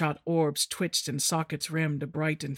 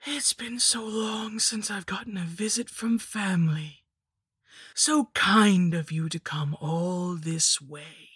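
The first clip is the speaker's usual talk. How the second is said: witch voice; 3 semitones higher than usual. Acted. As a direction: savour each word like a hag. The hag repeats her greeting.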